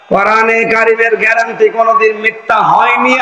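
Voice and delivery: fervent sermon voice; rousing Bengali waz preaching. Acted. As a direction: preach to the crowd with fire.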